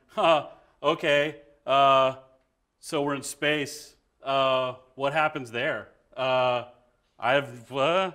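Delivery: slow, halting, full of uhs; doubtful actor fumbling for what to say; hesitant and unsure. Shown as a demonstration. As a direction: stall like you don't believe the scene. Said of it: "which is the wrong choice".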